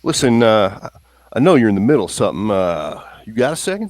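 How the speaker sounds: put-on quick, eager country-boy asking for a moment; nervous Slim. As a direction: hurry it out, nervous about interrupting. Slim nervously interrupts Singh.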